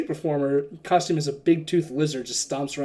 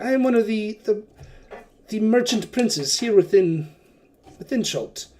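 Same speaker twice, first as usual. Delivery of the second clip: jovial merchant prince; 3 semitones higher than usual. Acted. Wakanga introduces himself as a merchant prince, jovially. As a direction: sell yourself, with a wink at their wallets. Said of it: "He's like".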